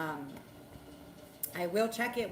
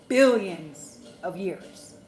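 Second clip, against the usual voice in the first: furious stretched shout; 12 dB louder, much slower than usual. Real, not acted. To her viewers, ranting about men, a slow furious shout. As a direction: drag it out loud and slow.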